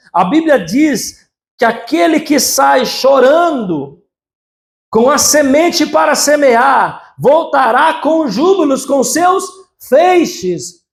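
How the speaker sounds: fervent sermon climax; preaching at full force. Acted. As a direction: proclaim it to the church, drawn out.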